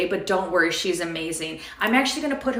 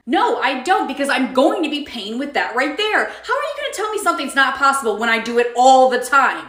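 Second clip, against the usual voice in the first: entitled customer; 3 semitones higher, 4 dB louder than usual. Acted. Karen customer argues with cashier.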